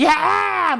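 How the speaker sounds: very high yell pushed upward; high shout. Shown as a demonstration. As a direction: push the voice up into a cry. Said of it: "그 야가 막 더 올라가게 하려고".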